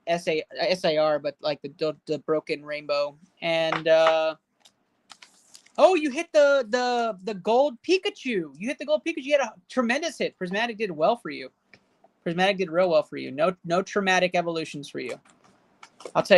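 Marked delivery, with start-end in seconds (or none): 5.8-10.4 excited praise. Real, not acted. Congratulating viewer on gold card.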